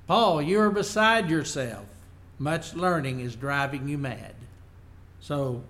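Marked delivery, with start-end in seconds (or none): 0.1-4.3 raised, louder rebuke of Paul; loud retort. Retold or imitated. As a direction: call it out loudly, as a scornful judge. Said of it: "he says it in a loud voice".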